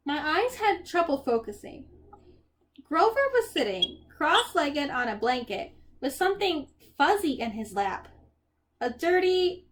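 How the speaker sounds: expressive, unhurried storybook reading; story narration. A narrator's reading. Percy describes Grover and the poodle, story narration. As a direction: paint the scene line by line.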